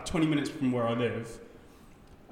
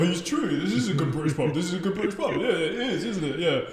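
higher, giggling pub patriot; laughing mock crowd; 5 semitones higher than usual. Audience mocking the toilet man, laughing. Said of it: "they were like".

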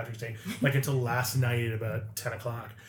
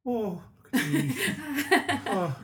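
mock Irish lament; 6 semitones higher than usual. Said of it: "But Irish just kind of".

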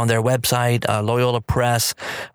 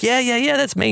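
much higher, eager "yeah yeah yeah"; mock-delighted admission; bashful excitement; 10 semitones higher than usual. Host confirming to a fan who recognized him, pleased. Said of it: "I'm like".

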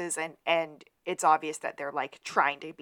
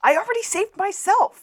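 mock smug reply; 8 dB louder than usual. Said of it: "acted exchange".

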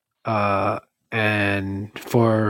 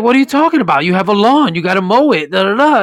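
father-in-law voice; 7 semitones higher, 4 dB louder, faster than usual. Retold or imitated. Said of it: "He's like".

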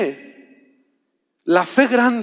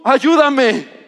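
pleading woman; 4 semitones higher, much slower than usual. Retold or imitated. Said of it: "le dijo".

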